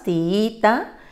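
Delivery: tiita with a long double i; syllables split. Shown as a demonstration. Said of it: "Tiene tres sílabas".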